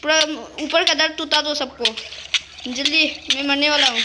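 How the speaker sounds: urgent panic. Real, not acted. Dying player urging his friend to hurry, loud panic. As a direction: beg him to hurry before you die.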